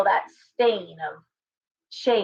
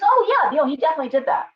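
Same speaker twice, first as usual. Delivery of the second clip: grandmother's dismissive reply; 5 semitones higher, 4 dB louder, faster than usual. Retold or imitated. Grandmother brushing off a gun threat.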